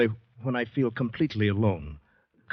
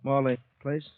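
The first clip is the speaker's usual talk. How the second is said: raised, higher call after him; 7 semitones higher, 4 dB louder than usual. Acted. Calling after departing stranger.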